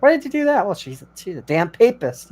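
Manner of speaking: movie characters. Retold or imitated. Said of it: "they're like".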